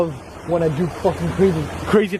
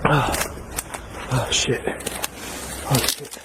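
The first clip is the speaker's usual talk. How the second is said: startled; 6 semitones lower, 7 dB quieter, slower than usual. Real, not acted. Sees something in dark.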